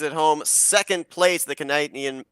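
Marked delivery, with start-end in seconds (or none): 1.5-2.2 word slipping into an Australian accent; accidental Australian accent. Real, not acted. Announcer fumbling the track name, accidental Australian accent. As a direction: say CANADIAN with an unintended Australian vowel. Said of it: "I sounded Australian for a moment there".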